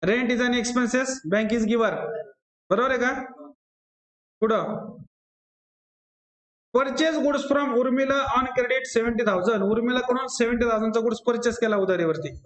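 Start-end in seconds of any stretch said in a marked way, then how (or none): 0.0-1.9 drawn out, deliberate; slow explanation. Shown as a demonstration. Teacher explaining an entry to students, slowly. 6.7-9.6 slow, word by word; slow dictation. Shown as a demonstration. Teacher dictating a purchase problem to the class, slowly.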